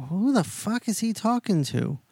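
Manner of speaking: high-pitched, puzzled disbelief; mock bewilderment. Acts out Sean's baffled look.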